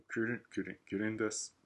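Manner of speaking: キリン said as an English-style word; mock ad-read English pronunciation of キリン; いい声 English pronunciation. Shown as a demonstration. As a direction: show off キリン in an anglicised accent. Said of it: "司馬遼のいい声での発音を聞いてください".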